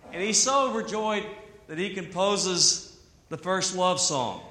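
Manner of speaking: normal talking voice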